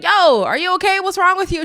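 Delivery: high, loud mock concern; imitating concerned boyfriend. Boyfriend checks on crying partner outside the room, mock concern. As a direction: call out to her in a playful retelling.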